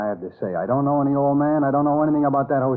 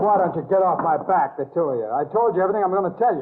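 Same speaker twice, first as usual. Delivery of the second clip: fed-up outburst; 4 semitones higher than usual. Acted. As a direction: rattle it off in irritated defiance. Suspect snaps at two detectives.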